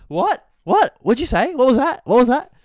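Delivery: high, loud, indignant questions; outraged heckling. Retold or imitated. Three audience girls challenging the comic, loud high outrage. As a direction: imitate offended hecklers piling in, high-pitched.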